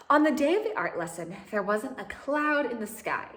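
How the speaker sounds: lively storybook reading voice with lifted character lines; animated read-aloud for young listeners; reading to children. A narrator's reading. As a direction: read it like a picture book to a class.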